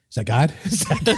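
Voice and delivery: laughing mock question. Mom as a girl asking through giggles, laughing. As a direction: ask it through a laugh, high.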